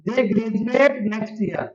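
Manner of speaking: very slow, word by word; slow teaching demo. Shown as a demonstration. Teacher reading the board sentence to students, very slow. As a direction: read the board sentence slowly. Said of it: "sentence सामने लिखा हुआ है".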